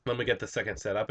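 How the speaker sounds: talking through a mouthful of food; chewing noisily. Real, not acted. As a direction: chew while you speak. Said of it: "sorry I'm eating while I'm doing this".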